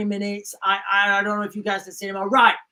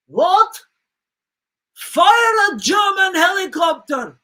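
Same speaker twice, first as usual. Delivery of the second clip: higher, louder, slow hammed-up yell; mock Russian yell; 8 semitones higher, 6 dB louder, slower than usual. Sailor bawls the garbled order, slow mock shout. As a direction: mishear it and bawl the wrong order.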